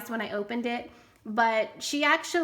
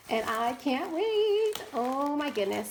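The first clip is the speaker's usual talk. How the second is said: ordinary delivery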